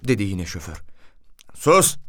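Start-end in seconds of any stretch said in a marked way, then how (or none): 1.5-2.0 sharp, higher-pitched rebuke; scolding. A narrator's reading. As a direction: cut him off with a scolding order. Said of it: "diye çıkıştı komiser".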